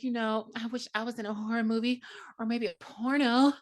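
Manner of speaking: high, coy mock Sydney voice; imitating Sydney. Host retelling Sydney's flirting with Billy, lightly high and coy. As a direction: toss it off high and teasing. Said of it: "And so Sydney is like".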